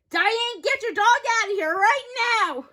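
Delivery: angry order. Acted.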